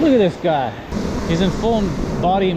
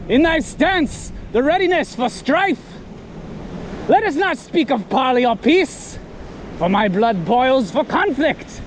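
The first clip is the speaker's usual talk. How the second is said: knight voice; 5 semitones higher than usual. Pretend. Knight duel challenge.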